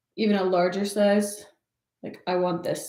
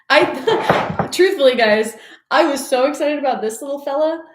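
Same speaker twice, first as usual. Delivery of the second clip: laughing gush; 5 semitones higher, 7 dB louder than usual. Real, not acted. Gushing about the knife.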